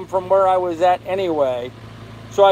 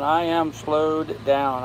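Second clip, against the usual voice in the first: slowed down; much slower than usual. Shown as a demonstration. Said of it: "Slow down".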